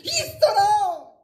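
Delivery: shouted high thunderous command; judging tone. Shown as a demonstration. Preacher booming God's judging voice at the congregation. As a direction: boom it out like a judge pronouncing sentence. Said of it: "그러니까 심판하는 톤".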